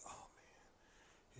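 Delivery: very soft, hushed groan of dismay; barely voiced retold dismay; reluctant mutter. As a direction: mumble it under your breath. Partner's reluctant reaction, retold.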